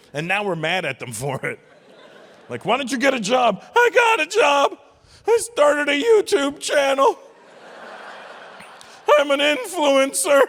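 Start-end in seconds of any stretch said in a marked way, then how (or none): 2.7-3.6 higher, louder mock scold; nagging parent. Older generation scolding a young person, mock nagging. 3.7-10.4 much higher, loud, slow whining shout; whiny young influencer. Retold or imitated. Comic mocking a young influencer yelling back, high whiny shout.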